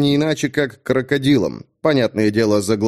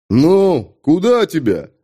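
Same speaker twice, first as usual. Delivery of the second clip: guard's call; 3 semitones higher, 4 dB louder, slower than usual. Acted. Часовой окликает.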